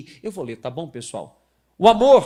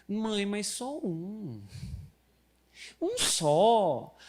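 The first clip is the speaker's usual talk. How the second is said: put-on child begging; 4 semitones higher, much slower than usual. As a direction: whine slowly like a kid. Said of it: "minha filha".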